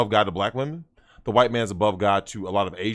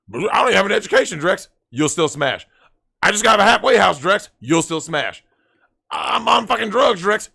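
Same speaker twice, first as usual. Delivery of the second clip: whiny loser voice; 7 semitones higher, 4 dB louder than usual. Retold or imitated. Quoting a hopeless loser.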